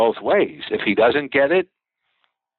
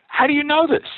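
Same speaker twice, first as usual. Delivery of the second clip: 1 astonished question. Retold or imitated. Astonished at window washer's insight.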